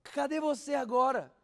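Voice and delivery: loud, high, slow cry to God; man alone in his room crying out loudly to God; desperate cry. Retold or imitated. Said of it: "começou a gritar desesperadamente".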